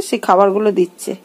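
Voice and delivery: usual speaking voice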